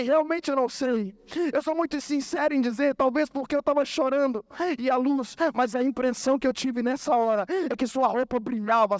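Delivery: usual speaking voice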